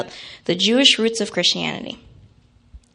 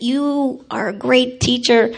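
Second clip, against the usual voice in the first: building louder, ending in a laugh; indignant child scolding; 3 semitones higher, 5 dB louder than usual. Retold or imitated. Child telling off her teacher, rising loud and indignant. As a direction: scold the teacher like a righteous kid. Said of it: "I said".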